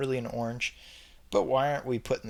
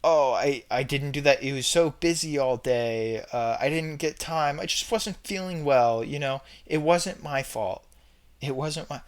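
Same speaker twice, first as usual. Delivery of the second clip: victim voice; 3 dB louder than usual. Retold or imitated. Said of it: "plays the victim says".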